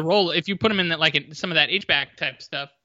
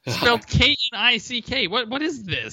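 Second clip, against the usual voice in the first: put-on New York accent; 6 semitones higher than usual. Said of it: "our terrible New York accents".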